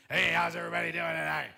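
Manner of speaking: loud, penetrating, weird rasp; raspy voice. Shown as a demonstration. Youth pastor demonstrating a raspy voice to students, loud and grating. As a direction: belt it out in a hammed-up raspy voice. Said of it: "that's a raspy voice".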